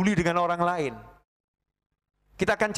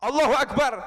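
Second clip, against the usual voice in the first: usual speaking voice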